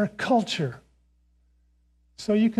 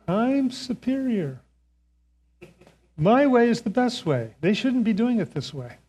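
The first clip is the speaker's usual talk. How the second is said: smug superiority; 5 semitones higher than usual. Retold or imitated. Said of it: "I'm thinking to myself".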